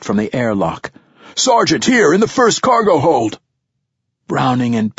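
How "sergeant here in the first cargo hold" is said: high urgent shout; calling out. Acted. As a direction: yell for the sergeant, urgent.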